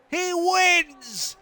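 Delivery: high, loud winning call; excited. Acted. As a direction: shout the finish with joy. Calling the race winner.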